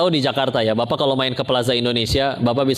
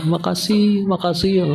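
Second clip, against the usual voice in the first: higher-pitched, repeated thanks; acted grateful thanks; 6 semitones higher, slower than usual. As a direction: lightly play someone overcome with gratitude. Acted giver gushing with thanks. (pura-pura sangat berterima kasih)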